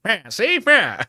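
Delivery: hammed-up gangster-Aussie accent; Australian-American gangster accent. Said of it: "nineteen twenties American gangster went to Australia".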